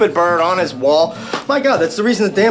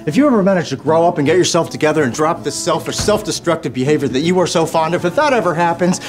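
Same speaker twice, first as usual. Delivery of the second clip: escalating rant; 4 semitones higher than usual. Acted. Scolding daughter's boyfriend, escalating.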